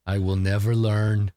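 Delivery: slow, halting simpleton with mild regret; simple mourning brute. Acted. Skuna musing on the dead friend's eyebrows, slow mild sorrow. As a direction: puzzle slowly over a lost friend.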